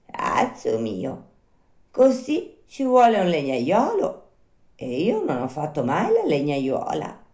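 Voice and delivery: lightly voiced unhurried snail; placid snail. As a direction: draw out the first words placidly. Snail calmly declines to help.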